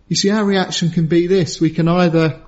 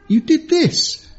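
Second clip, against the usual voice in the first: stern dad scolding; 4 semitones higher than usual. Retold or imitated. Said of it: "pulled up by my dad and saying".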